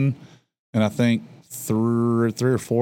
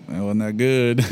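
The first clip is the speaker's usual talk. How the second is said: mock TV overreaction; slower than usual. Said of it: "just overreact".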